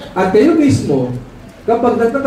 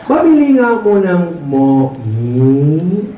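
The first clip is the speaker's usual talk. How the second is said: nasal customer voice; 2 semitones lower, much slower than usual. Acted. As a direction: drag the words out like a customer with a speech impediment. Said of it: "Sabi ng ngongo".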